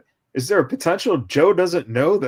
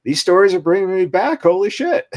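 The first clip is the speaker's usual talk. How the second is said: louder, higher excited quote; 6 semitones higher, 6 dB louder than usual. Retold or imitated. Former crew member reacting to old stories, excited and loud. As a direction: relay his delight with a lift. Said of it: "And he said".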